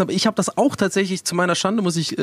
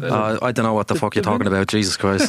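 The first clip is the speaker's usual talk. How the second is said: put-on cursing in a Dublin Irish accent; 6 semitones lower than usual. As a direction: swear casually in an Irish accent. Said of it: "Sag nochmal was". (irischer Akzent, fluchend)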